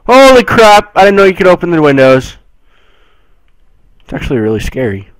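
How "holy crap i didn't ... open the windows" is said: high, loud, fast amazed outburst; sudden loud astonishment; surprised. Real, not acted. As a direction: blurt out the discovery. Surprised discovery.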